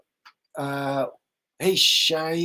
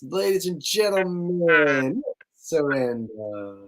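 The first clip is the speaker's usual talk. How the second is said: slow, drawn-out showman introduction; game-show host presenting the guest; announcer intro; much slower than usual. Pretend. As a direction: bring him on like a host at a gala.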